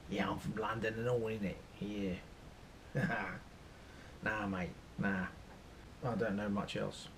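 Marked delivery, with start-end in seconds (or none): 0.1-5.3 put-on Cockney gangster; mock Cockney, casual and matey; Cockney accent. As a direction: do a London Cockney geezer. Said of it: "the real Cockneys".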